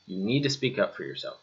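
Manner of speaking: quiet firm reminder to the students. Shown as a demonstration. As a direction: drop down and lean on "to".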